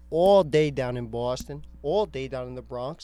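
put-on playful mash of Boston and Bronx accents; mixed Boston-Bronx accent. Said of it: "mixing both accents".

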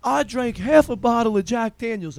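mock a shit-faced friend bragging; imitating drunk friend. Drunk friend boasts about his whiskey, mock drunk bragging. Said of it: "this motherfucker is shit-faced".

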